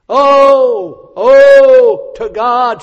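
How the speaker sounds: loud, high wailing "Oh, oh, to God"; the girl's longing shown as a loud lament; wailing cry. Shown as a demonstration. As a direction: cry it out like a desperate plea. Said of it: "This is old English".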